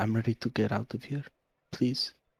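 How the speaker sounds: barely audible, soft half-whisper under the breath. Voicing Irina as she walks to the caravan in shock: half-whispering under her breath. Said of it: "Irina kinda whispers under her breath".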